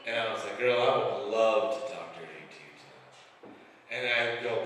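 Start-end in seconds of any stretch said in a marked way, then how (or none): 0.6-3.1 low-pitched smooth come-on; smooth seducer. Retold or imitated. Husband answers wife's dirty-talk request, mock seductive.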